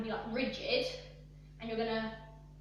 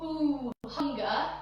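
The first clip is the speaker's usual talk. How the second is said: breathy ooh; slower than usual. Shown as a demonstration. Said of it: "as if it's like a breath".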